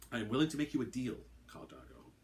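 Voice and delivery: calm and quick offer; smooth the tone down; much calmer voice. Acted. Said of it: "in a much calmer voice".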